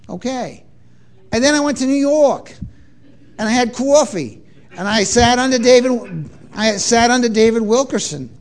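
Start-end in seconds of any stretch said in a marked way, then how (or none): 1.3-8.3 lightly put-on New York vowels; playful New Yorker impression; New York accent. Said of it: "so confused with my accents".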